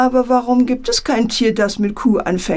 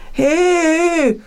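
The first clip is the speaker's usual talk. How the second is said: a high, sharp outraged "Hey"; indignant bear; 8 semitones higher than usual. A narrator's reading. Bear protests being skipped, indignant shout. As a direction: bark out a bear's offended protest. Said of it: "empört sich der Bär".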